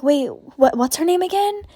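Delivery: put-on confused girl, voice climbing high at the end; puzzled question. Other girl asking her friend for a name, puzzled and rising. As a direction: ask haltingly, pitch rising into the question.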